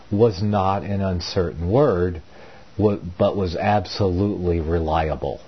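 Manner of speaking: emphatic reading of a reworded verse; formal read-aloud voice; scripture reading. A narrator's reading. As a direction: deliver it as Bible text, firmly stressed. Reads out own rendering of the verse.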